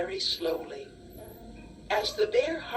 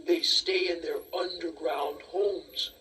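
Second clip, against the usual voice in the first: bear; 3 semitones lower than usual. Acted. Bear voice, lower, different timbre.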